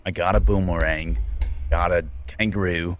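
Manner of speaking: low, put-on Australian accent. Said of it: "I have to get Australian".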